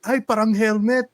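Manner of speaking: high-pitched aunt's exclamation; imitated aunt. Imitating aunt's remark on what she saw.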